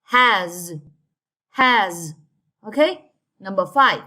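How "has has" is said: has with a buzzing z at the end; has, said slowly as hazz; drawn-out final Z. Shown as a demonstration. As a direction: stretch the last sound of has. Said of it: "we have".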